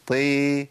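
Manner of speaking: "طي" said wrong, with a thin T; weakened ط. Shown as a demonstration. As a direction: lighten the T of "طي" towards "tee". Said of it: "ما ينفعش". ("طي" مرققة غلط)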